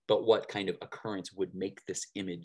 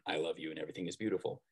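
said lower and softer, quickly; 5 semitones lower, 7 dB quieter, much faster than usual. A narrator's reading. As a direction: drop the voice down low and quiet, rushing through. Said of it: "Young man in a lower tone".

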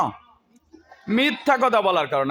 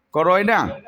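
scolding shout; 2 semitones lower, slower than usual. Real, not acted. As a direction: demand an answer from the class. Teacher scolds silent students.

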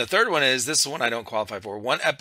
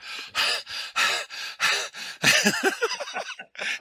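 voiceless rapid-fire bursts of noise; imitated airsoft noise. Player imitating noises heard in airsoft videos, voiceless bursts. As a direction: mimic airsoft gun sounds in repeated puffs. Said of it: "And then you hear".

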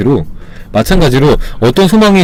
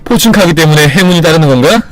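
playful boast; 2 semitones higher than usual. Retold or imitated. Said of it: "긍정적인 농담들을".

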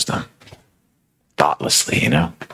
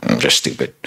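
mock dumb excuse; 5 semitones lower than usual. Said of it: "their argument is".

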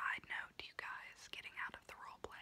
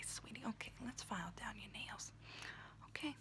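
whispering auntie roleplay; 3 semitones higher than usual. Acted. Auntie whispering to her niece while doing her nails, in a confiding unvoiced whisper. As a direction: whisper close and chatty like a kooky aunt doing your nails.

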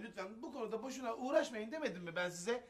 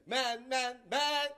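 booming proclamation; forceful decree; 6 dB louder, much slower than usual. Acted. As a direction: lay down the law loudly. Banning with a pronouncement.

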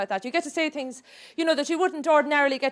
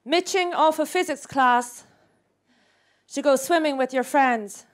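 poetry reading. Acted. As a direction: recite it like a serious poem. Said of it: "here's another one".

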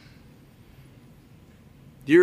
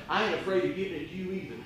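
emotional; 6 dB quieter, much faster than usual. Real, not acted. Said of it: "I get a little emotional".

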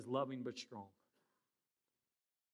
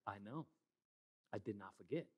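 put-on sulky child; 8 semitones lower, 13 dB quieter than usual. Child answering parent, sulky.

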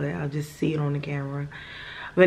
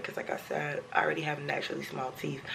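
whispering; 9 dB quieter, faster than usual. Real, not acted. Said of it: "talk like this".

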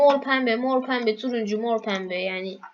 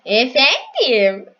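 drawn-out answer; 9 dB louder, much slower than usual. Real, not acted.

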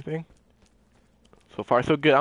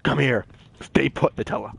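calm orders. Retold or imitated. Player imagines Barry directing Nutella, calm imitation. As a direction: give the orders calmly, easing off at the end. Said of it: "calmly does it".

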